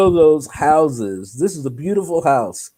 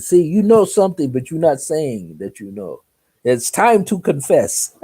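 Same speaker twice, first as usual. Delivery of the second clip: raised, emphatic confrontation; pressing accusation; 3 semitones higher, 3 dB louder than usual. Retold or imitated. Lady says it's time to confess, pressing. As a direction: press firmly for an admission.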